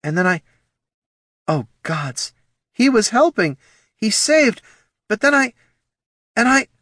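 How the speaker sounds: high, halting, building anguish; broken fragments of mounting horror; creeping despair. Acted. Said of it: "notes of despair crept into the ranger's voice".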